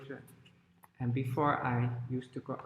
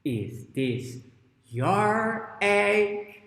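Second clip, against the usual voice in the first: tag; 6 semitones higher, 5 dB louder, much slower than usual. Acted. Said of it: "and she says".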